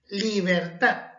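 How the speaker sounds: "Libertad" said slowly with the weight on the last syllable "TAD"; slow stress demo. Shown as a demonstration. Teacher models stress on the last syllable, slow and clear. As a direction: draw out "liberTAD", landing on the end. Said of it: "mayor fuerza de voz en la última sílaba".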